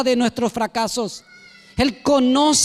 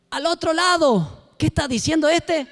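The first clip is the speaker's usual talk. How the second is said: puzzled Pedro; 6 semitones higher than usual. Acted. Pedro confused at the shouting.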